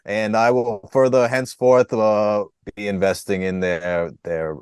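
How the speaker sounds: lightly voiced pompous lawyer-politician; a hint of official mayor caricature; Rudy Giuliani. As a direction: proclaim it as mock legal decree. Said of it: "You can do Rudy".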